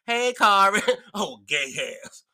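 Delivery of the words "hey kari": imitating gay coworker. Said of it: "That's how he sound".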